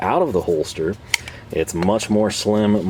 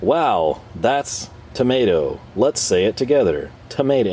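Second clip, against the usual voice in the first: narrator voice; 3 semitones higher than usual. Retold or imitated. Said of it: "in narrator voice".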